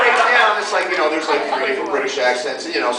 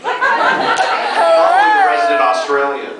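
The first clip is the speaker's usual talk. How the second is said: put-on Australian accent; 14 semitones higher, 4 dB louder, slower than usual. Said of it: "Who can do the best Australian voice?".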